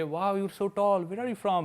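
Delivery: slow, drawn-out mock British accent. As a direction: imitate the British girl's accent, stretched slow. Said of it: "British accent में बोली". (धीमा, खिंचा हुआ British लहजा)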